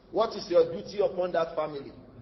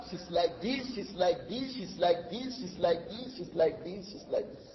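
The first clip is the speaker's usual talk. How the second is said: fading repetition; 6 dB quieter than usual. Shown as a demonstration. Describing the sister's behaviour.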